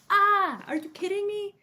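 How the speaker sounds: high, loud, delighted squeal; excited squeal. Real, not acted. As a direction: gush over it with delight. Delight at the spaceship art.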